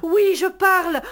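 loud, lifted proclamation; proud declaration. Acted. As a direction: announce it triumphantly.

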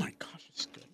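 talking while chewing; chewing gum. Real, not acted. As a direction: mouth full of gum. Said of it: "I don't need to hear you chewing your gum".

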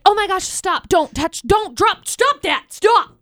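high, frantic pleading; mock panic. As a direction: squeal stop like she's panicking. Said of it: "McCall's over here like".

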